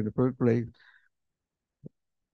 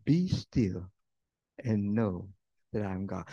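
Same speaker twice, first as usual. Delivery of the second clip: calm scripture; 4 semitones lower than usual. Acted. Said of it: "here's what the word says".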